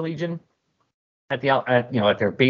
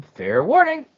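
cold warning; 12 semitones higher, 3 dB louder, slower than usual. Acted. Phase coldly warns demon.

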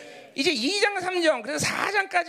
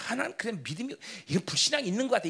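vague half-hearted admission; faster than usual. Acted. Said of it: "이런 게 아니야".

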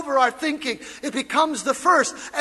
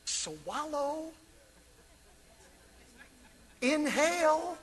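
much softer and lower; hushed instruction; 4 semitones lower, 11 dB quieter than usual. Real, not acted. Pastor explains addiction, hushed. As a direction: lean in close. Quiet teaching aside.

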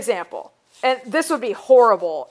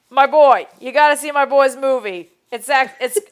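put-on a touch of a Boston accent, hyped up; lightly done Boston bro plugging his boy; mock Boston buddy; 2 semitones higher, 3 dB louder than usual. Boston friend hyping his buddy's movie, light Boston accent. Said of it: "I wish he was doing it in, like, a Boston accent".

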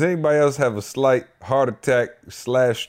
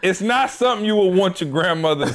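laughing; 4 semitones higher than usual. Real, not acted. Laughing over embarrassing story.

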